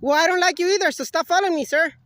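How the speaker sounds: loud irritated comeback; angry retort. Real, not acted. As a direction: snap back, fed up. Filmer snaps back at staff.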